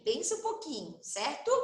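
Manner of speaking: usual speaking voice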